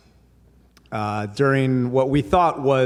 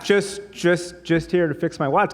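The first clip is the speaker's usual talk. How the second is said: higher, stammering repeat; flustered; 6 semitones higher than usual. Retold or imitated. Customer repeating his excuse to the shopkeeper, flustered. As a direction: stumble through it, caught out.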